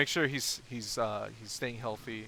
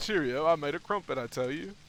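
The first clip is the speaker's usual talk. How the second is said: milder mock British voice, slightly raised; British dude; 3 semitones higher than usual. Streamer reprising the British crumpet inventor, mock British. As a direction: replay the British inventor with playful pomp. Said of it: "British dude in America was like".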